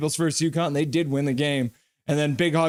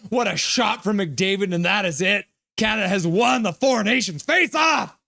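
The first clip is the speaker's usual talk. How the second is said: rising excitement to a shouted final line; play-by-play call. Acted. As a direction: call the winning goal like a broadcaster. Replays the winning goal call.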